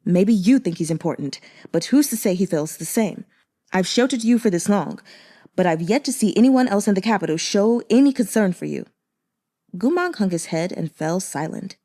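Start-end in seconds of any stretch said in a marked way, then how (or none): 0.0-8.9 snapping. Acted. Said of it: "he snapped".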